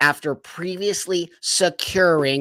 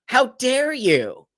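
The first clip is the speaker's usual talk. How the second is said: high, slow, outraged demand; 9 semitones higher, slower than usual. Real, not acted. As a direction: hurl it, scandalized. Indignant at ruling.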